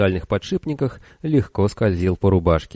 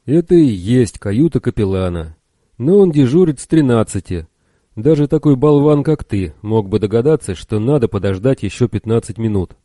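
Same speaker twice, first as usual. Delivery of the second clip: louder, higher scolding officer; irritated officer; 3 semitones higher, 5 dB louder than usual. Acted. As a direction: snap at a fool, louder.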